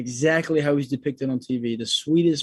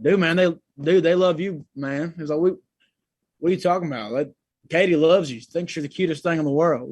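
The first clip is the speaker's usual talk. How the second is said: hyped, higher and louder pep talk; hyping up; 4 semitones higher, 5 dB louder than usual. Retold or imitated. Noah hyping up his friend on the bench, higher and louder. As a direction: pump up a nervous friend. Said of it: "hyping me up".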